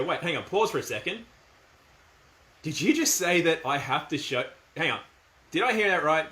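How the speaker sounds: mock disbelief, rising on each question; teasing, pretend surprise at the guard; joking but firm. Shown as a demonstration. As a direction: play dumb, firm underneath. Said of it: "I'm making a bit of a joke about it and not as combative".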